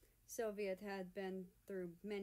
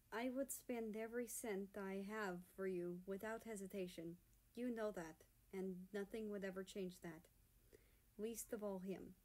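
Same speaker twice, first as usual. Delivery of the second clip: soft. Acted. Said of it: "he says softly".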